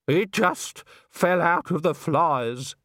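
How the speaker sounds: slow, drawn-out shocked voice; slowly, as if stunned by what fell; lightly voiced shocked bystander. A narrator's reading. Showing what fell out of the flies, dazed and halting.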